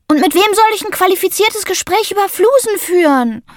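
put-on high, dramatic boy's lament; a kid wailing about missing his friends; whiny Sammy. A narrator's reading. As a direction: overplay the heartbreak. Sammy voiced by narrator.

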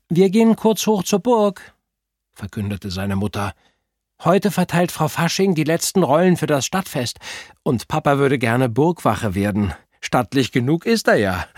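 high, loud cheerful mum voice; cheerful mother. A narrator's reading. Mother telling the kids about the castle roles, high and cheery. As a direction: announce it brightly as the mother.

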